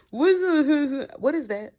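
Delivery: loud, high burst of amused disbelief; can't believe what you're hearing; laughing disbelief. Real, not acted. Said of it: "why when he get mad, he talking with his teeth closed".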